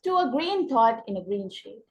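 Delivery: "To a" and "in a" light, "green thought", "green shade" stressed; slowly weight "green thought" and "green shade"; stress on spondees. Shown as a demonstration. Teacher demonstrates the stresses, leaning on "green thought", "green shade". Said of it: "ग्रीन थॉट और ग्रीन शेड पे हम stress दे करके पढ़ेंगे".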